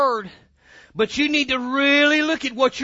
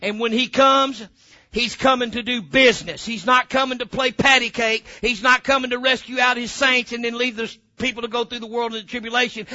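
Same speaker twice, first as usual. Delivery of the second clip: emphatic pulpit delivery; forceful preaching. Real, not acted. Preacher correcting the church on the second coming, forceful preaching. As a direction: preach it hard, punching key words.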